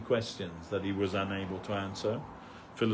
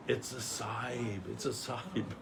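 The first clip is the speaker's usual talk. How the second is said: retold whisper; 9 dB quieter than usual. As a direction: imitate a discreet warning in someone's ear. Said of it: "I whispered to him".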